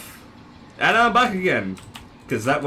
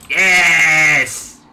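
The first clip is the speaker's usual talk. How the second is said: slow, drawn-out villain gloating; evil villain voice; 2 semitones lower, 4 dB louder, much slower than usual. Pretend. Gamer playing villain over the game, slow evil voice. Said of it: "This is my evil voice!".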